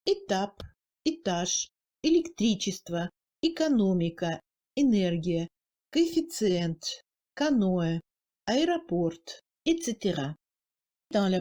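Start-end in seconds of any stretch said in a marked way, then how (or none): 0.1-9.1 Étape, étage with first E reduced toward a short Russian i-like sound; reduced unstressed E. Shown as a demonstration. Teacher demonstrates Russian loanwords to learners, reduced E. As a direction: say électричество-type examples in Russian, unstressed E weakened. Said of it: "ce son est réduit à quelque chose de moyen".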